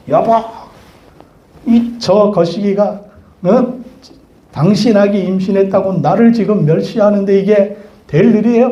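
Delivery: high, indignant wife's complaint; nagging complaint. Retold or imitated. Sarah complains to Abraham about her servant, high and indignant.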